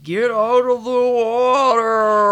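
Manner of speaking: drawn-out, loud, high mock slow-mo shout; imitated slow-motion movie scream, stretched out; slow-motion yell. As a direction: yell it as if the film is slowed right down. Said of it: "kind of weird slow-mo of Jill yelling".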